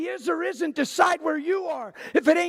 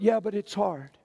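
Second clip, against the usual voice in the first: mock whiny excuse; 7 semitones lower, 3 dB quieter than usual. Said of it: "Here's another one I hear".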